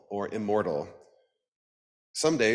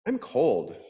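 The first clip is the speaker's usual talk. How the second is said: cold little duck; 5 semitones higher, 3 dB louder than usual. Acted. Duck feeling the chill.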